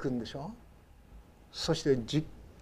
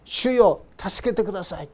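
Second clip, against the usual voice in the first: higher pleading cry; desperate plea; 3 semitones higher, 4 dB louder than usual. Retold or imitated. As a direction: cry out as if sinking. Repeated plea of sinking Peter. (溺れかけたペテロの必死の叫び)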